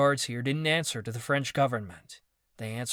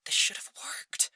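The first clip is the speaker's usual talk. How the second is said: a higher, breathless insistence; insisting; 12 semitones higher than usual. Acted. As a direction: protest that it should have worked. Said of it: "Ava insisted".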